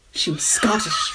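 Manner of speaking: attempted Scottish coming out Irish; mock Irish accent, drawn out. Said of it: "I said that in an Irish accent".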